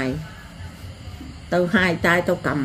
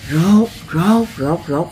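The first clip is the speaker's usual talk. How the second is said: shuffling sandal sound; 2 semitones lower, much slower than usual. Retold or imitated. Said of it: "đi kéo dép vậy".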